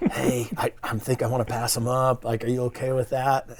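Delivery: quiet half-whispered voice. Recounting a hunt, the speaker re-enacts what they said to the group: retelling a half-whisper. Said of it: "I'm whispering to you guys".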